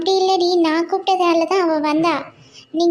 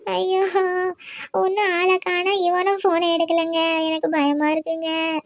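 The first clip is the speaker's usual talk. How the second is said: crying. Acted. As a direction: sob out your fear to your husband. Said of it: "ஏன் இப்ப அழுற".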